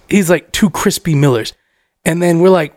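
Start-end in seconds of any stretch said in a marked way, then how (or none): 0.5-1.5 lightly voiced drunk, low; Rob. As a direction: imitate a wasted friend repeating his order. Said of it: "Rob wasted".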